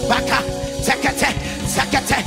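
rhythmic, percussive repeated syllables; staccato tongues at a steady pulse; praying in tongues. Acted. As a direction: fire off the same syllables in an unbroken volley. Rapid prayer in tongues.

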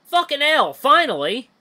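high, loud exasperated cry; urgent outburst. Acted. Badger sprinting up to Loken, high urgent outburst. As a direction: burst out loudly in alarm.

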